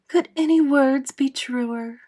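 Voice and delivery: high, drawn-out, delighted exclamation; cheering cry. A narrator's reading. Miss Spider applauds the praise of Earthworm, cheering. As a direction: cry it slowly in delighted approval. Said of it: "cheered and cried".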